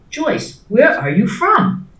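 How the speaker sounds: lightly voiced dinner guest asking where she's from; imitating a curious asker. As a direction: mimic the well-meaning asker. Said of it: "the question came around".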